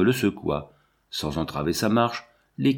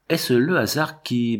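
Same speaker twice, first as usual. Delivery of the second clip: stammering; 4 semitones higher, slower than usual. Acted. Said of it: "balbutia-t-elle".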